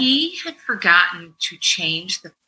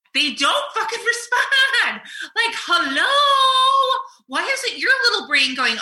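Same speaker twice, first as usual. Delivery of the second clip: higher, laughing exasperation; exasperated; 11 semitones higher than usual. Real, not acted. Venting about her family, exasperated laughing hello.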